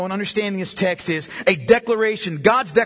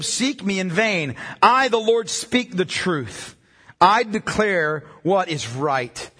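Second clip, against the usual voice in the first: solemn scripture reading. Acted. Reads scripture aloud.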